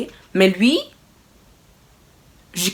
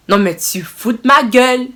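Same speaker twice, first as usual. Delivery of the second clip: louder, higher, slowed outrage; indignant outburst; 4 semitones higher, 6 dB louder than usual. Real, not acted. Reacting to the sofa bed, slow indignant outburst. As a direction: hit it with disbelieving indignation.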